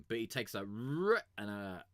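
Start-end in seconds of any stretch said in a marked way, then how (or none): 0.6-1.2 drawn-out rolled r, rising in pitch; imitated vocal effect. Reviewer showing what the rapper does to a word, imitated effect. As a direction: mimic the track's stretched r sound. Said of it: "he fucking reverses it".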